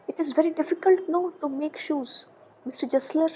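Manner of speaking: softly voiced shy question, half whispered; low voice. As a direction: drop to a hushed, timid near-whisper. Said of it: "he asked in a very low voice".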